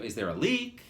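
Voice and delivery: repeating the receptionist's inflection to the audience; annoyed. Retold or imitated. Imitating her annoyed tone. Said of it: "she was pissed".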